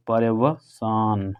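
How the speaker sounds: पर्यवसान said very slowly, each syllable separate. Shown as a demonstration. Teacher to class, spelling out पर्यवसान slowly. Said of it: "पर्यवसान सही है".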